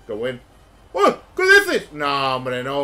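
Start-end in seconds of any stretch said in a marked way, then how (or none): 0.9-1.9 high, loud disbelieving cry; incredulous. Real, not acted. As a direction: react in sheer disbelief. Disbelief at play.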